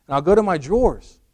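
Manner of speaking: high, loud voice of a marvelling husband; hammed-up wonder at a household miracle; mock amazement. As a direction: act astounded, building in pitch and volume. Husband marvels at magic basket.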